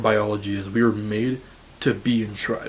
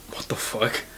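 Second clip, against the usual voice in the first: a stunned whisper, no voice at all; shocked whisper; 5 dB quieter than usual. Retold or imitated. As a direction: breathe it out in disbelief. Retold reaction to friend.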